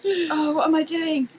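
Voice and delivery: lightly acted slow exasperation; mock bewilderment. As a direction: act out being baffled and lost, slowly. Retelling her confusion over brioche.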